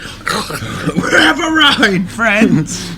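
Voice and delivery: shouted through a mouthful, slowly; mouth full. Retold or imitated. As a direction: yell it with food in your mouth. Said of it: "with his mouth full of food".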